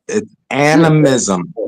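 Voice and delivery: slow, careful syllables; over enunciating. Shown as a demonstration. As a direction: spell it out slowly. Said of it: "I'm going to say it slowly so you understand".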